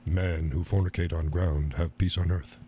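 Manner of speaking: low, measured mock Native American accent. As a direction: deliver a proverb in a fake Native American accent. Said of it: "that's Native American".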